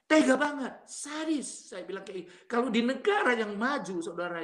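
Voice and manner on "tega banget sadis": high-pitched, emphatic reproach; indignant reproach. Real, not acted. Father telling listeners how he was treated, high indignant reproach. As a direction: exclaim at the cruelty, voice raised in pitch. Father condemns their cruelty.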